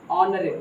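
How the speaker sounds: ऑनरेबल started straight on ऑ, no h; silent h. Shown as a demonstration. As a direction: repeat ऑनरेबल without any h. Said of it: "एच यहाँ silent है". (ऑनरेबल, बिना एच के)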